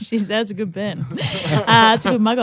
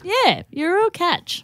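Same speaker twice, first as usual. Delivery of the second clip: slow, holding back a laugh; trying not to laugh; 7 semitones higher, slower than usual. Real, not acted. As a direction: say it straight while fighting a giggle.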